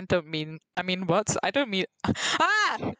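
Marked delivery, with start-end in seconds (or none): 2.4-2.9 sudden high yelp; playful yelp. Pretend. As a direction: cut in with a squeaked cry. Playful yelp amid joking.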